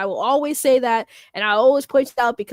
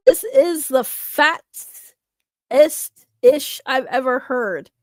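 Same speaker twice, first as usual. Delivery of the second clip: deliberate rereading; much slower than usual. Real, not acted. Rereads garbled message word by word.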